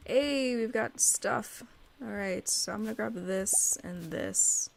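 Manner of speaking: thrilled at the find, slowing down; excited planning. Real, not acted. Finds stuff, plans grabbing it.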